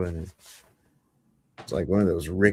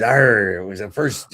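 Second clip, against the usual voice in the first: lightly voiced sea dog; pirate. Pirate starting his tale of the lost hand, lightly acted. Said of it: "He says".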